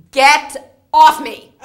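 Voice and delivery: high, slow laughing cry of disbelief; stunned disbelief. Retold or imitated. To the caller, stunned by the package, laughing squeal.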